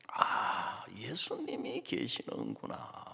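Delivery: awed whisper. Real, not acted. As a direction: whisper it in wonder.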